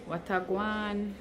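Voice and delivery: slow Jamaican greeting; drawn-out patois phrase. Pretend. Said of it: "We know how to speak Jamaican".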